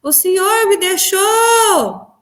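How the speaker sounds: high, anguished wail to Jesus, slow in places; reliving a desperate sobbing plea; crying out to Jesus. Retold or imitated. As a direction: cry out to the Lord as if abandoned. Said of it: "e eu gritava, falava".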